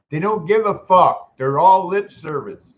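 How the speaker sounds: real frustrated outburst at the landlord; angry outburst. Real, not acted. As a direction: spit it out, fed up. Angry rant at housing company.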